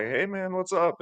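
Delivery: high, bright-energy "hey man" like the gym's life of the room; chipper greeting. Retold or imitated. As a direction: pitch it way up and sound upbeat. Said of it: "chipper kinda guy".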